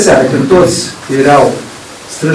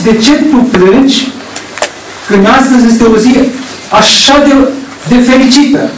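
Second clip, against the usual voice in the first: higher, wondering why she cries on a joyful day; amazed angels; 6 semitones higher than usual. Retold or imitated. Angels asking weeping Mary why she cries, amazed. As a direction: ask it in raised amazement, like a puzzled angel. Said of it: "Îngerii erau mirați".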